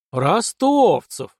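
loud, long-drawn astonished echo. A narrator's reading. Colonel hearing a familiar surname, astonished. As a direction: stretch the name out high in amazement. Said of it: "изумлённо переспросил полковник".

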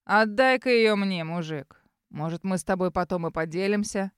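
наглый, медленный торг; lightly voiced наглый бандит; развязный гопник. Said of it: "голос Серого". (развязно, нагло)

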